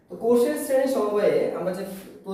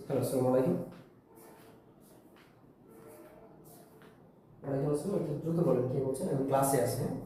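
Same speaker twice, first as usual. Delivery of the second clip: hushed phone voice, much softer and lower; whispering on the phone; 7 semitones lower, 6 dB quieter than usual. Real, not acted. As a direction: keep it down, class is listening. Phone call during live class.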